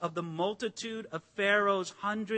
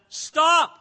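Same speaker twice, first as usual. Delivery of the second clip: loud, sharp Stop, then slower; firm command; 4 semitones higher, 4 dB louder, slower than usual. Pretend. The Lord stopping a panicked believer, loud and firm. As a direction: halt them with each word. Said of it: "He simply says to them".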